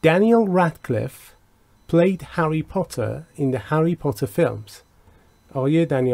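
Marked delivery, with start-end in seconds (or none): 0.1-4.7 slow, clear English example read; slow model reading. Shown as a demonstration. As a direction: read it out slowly for learners. Teacher reads example slowly. (خواندن آهسته و شمرده)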